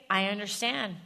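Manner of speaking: gentle, kind acceptance; lovingly. Shown as a demonstration. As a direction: say it with love, no edge. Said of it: "you just lovingly say".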